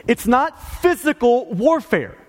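"It's not physical warfare" said slowly, each word leaned on, "physical" stressed; emphasizing the words. Real, not acted. Preacher to his congregation, slow emphatic stress on "physical". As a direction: spell out "physical" with weight, falling at the end. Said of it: "let me emphasize the words here".

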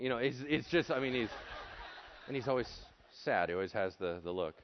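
ordinary delivery

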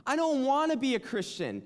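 desperate prayer. Retold or imitated. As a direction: cry out to God in anguish. Retold desperate prayer by bed.

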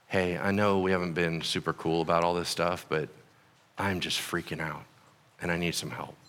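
soft, low and hushed plea; mild grieving plea. Acted. Coworker who lost a son, softly asking for help. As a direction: ask for help quietly, shaken.

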